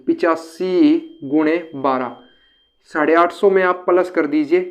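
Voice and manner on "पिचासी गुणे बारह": पिचासी गुणे बारह spoken slowly, word by word as if calculating; slow working-out. Shown as a demonstration. Teacher slowly works the sum for students. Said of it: "तो आप कैसे करोगे".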